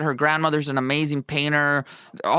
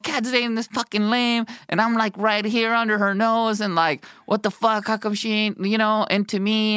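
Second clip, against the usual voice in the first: higher, exasperated ranting to a friend; ranting to his partner David about the girl he loves, higher and exasperated; retold rant; 5 semitones higher than usual. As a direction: vent it like you can't believe it. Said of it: "started ranting to David".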